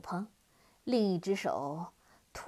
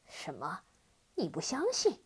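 displeased demon; 3 semitones lower than usual. Acted. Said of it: "黑蜂王很不高兴".

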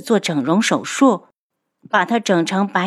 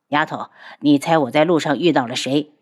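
a slightly lower playful male voice; lightly voiced Mantianyao; 4 semitones lower than usual. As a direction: tease her with a guessing game. Mantianyao teases heroine.

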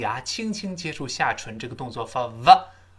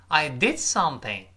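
DID stressed, tune falling away after it. Shown as a demonstration. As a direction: hit the word "did", let "something" drop. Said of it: "did一定要重读".

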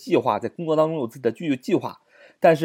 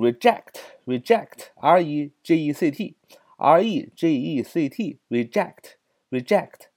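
slow spelling out; 3 semitones higher, much slower than usual. Shown as a demonstration. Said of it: "teacher spelling the word again".

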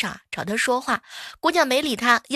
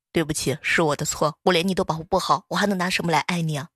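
a hint of a doting domineering boss; domineering CEO; 3 semitones lower than usual. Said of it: "都是一股霸道总裁的范儿".

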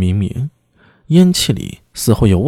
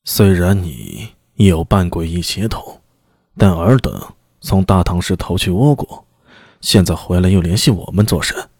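deep-voiced demon lord; 5 semitones lower than usual. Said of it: "刀牢沉声道".

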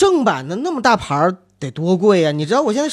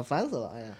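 fed-up sigh; 5 semitones lower, 14 dB quieter, faster than usual. Real, not acted. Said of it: "愁死我了".

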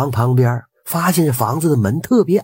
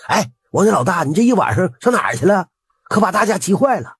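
higher, mildly anxious villagers; anxious questioning; 7 semitones higher, faster than usual. A narrator's reading. Villagers questioning Wang after his night away, mildly anxious. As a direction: voice worried neighbours with raised pitch. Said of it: "大伙儿着急地问".

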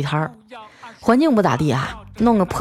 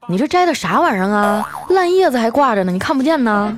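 acted-out motherly disgust, a little raised; disdainful mother; 3 semitones higher than usual. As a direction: imitate a mom's mildly scolding nagging. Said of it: "我妈一脸嫌弃地说".

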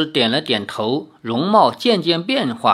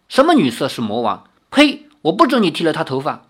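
怒斥; faster than usual. Acted. 林月如 angrily defends Ling'er.

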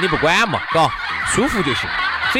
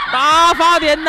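mock exclamation; 10 semitones higher, 4 dB louder, slower than usual. Exclaiming in the same begging voice.

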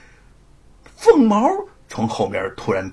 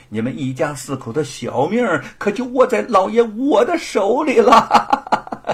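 high, loud gloating bully; smug threat; 8 semitones higher, 4 dB louder than usual. Acted. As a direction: threaten the family with glee. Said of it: "得意地说". (得意地威胁)

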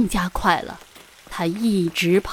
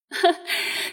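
breathy little laugh; 10 semitones higher, 5 dB quieter than usual. Acted. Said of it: "冷翠也笑".

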